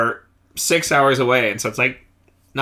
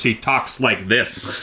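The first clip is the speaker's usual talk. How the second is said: lightly voiced slow deliberate talker; a hint of Thor's measured way of speaking; slower than usual. Shown as a demonstration. Band member demos how Thor talks, slow and lightly voiced. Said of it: "This is what Thor talks like".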